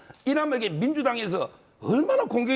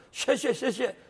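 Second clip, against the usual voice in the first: mock Chinese accent; much slower than usual. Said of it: "중국 사람 흉내를 내면서".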